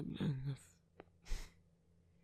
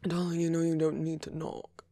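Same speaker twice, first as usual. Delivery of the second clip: raised voice carrying to the door; calling out; 5 dB louder than usual. Acted. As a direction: call it out fondly across the room. Calling to visitor through door.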